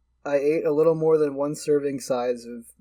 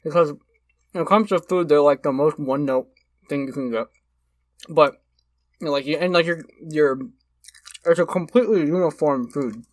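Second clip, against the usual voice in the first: mouth full. Real, not acted. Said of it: "I'm gonna talk with my mouth full".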